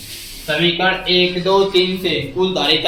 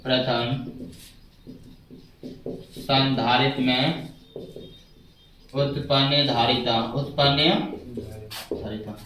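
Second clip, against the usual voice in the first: dictation; 7 semitones lower, 10 dB quieter than usual. Real, not acted. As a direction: dictate it in quiet, spaced-out chunks. Teacher dictating notes while writing. (धीमी, नीची आवाज़ में लिखवाते हुए)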